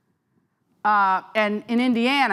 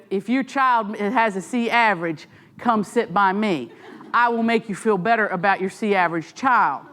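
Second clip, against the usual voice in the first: put-on Southern accent. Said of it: "suddenly I have a Southern accent".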